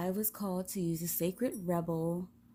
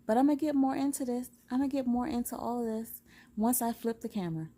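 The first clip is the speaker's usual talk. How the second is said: excited; 8 semitones higher, 6 dB louder, faster than usual. Real, not acted. Teasing more to come.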